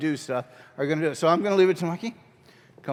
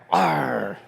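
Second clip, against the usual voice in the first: pirate growl; 3 semitones lower, 4 dB louder than usual. Shown as a demonstration. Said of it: "you can be the pirate".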